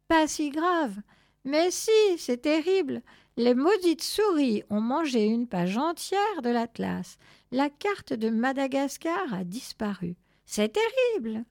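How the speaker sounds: high, indignant lament; insistent dismay. A narrator's reading. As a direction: protest as if it were a catastrophe. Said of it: "insista Je sais tout".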